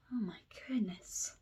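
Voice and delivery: soft breathy whisper of relief. Real, not acted. Catching her breath after the twister, whispered. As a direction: sigh it out in a whisper.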